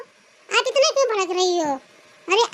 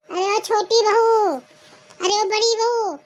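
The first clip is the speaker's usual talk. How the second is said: summoning call. Acted. Mother-in-law summons both daughters-in-law.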